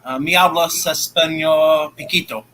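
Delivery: halting beginner's Spanish, said carefully; a few words of learner's Spanish, careful and halting; broken Spanish. Shown as a demonstration. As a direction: speak the Spanish line like a learner trying it out. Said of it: "can you speak Spanish then".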